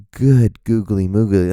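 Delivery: slow, drawn-out exclamation; mock amazement. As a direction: stretch it out in mock awe.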